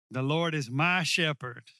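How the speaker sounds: "my" held long and emphasized in a slow line; stress on "my". Shown as a demonstration. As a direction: lean on the word "my". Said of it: "put the emphasis on my".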